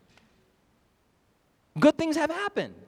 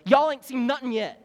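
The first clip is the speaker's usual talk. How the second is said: folksy y'all accent, a little raised; put-on Southern drawl accent; 3 semitones higher, 5 dB louder than usual. Shown as a demonstration. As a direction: lay on a light Southern accent. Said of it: "in this, in this accent".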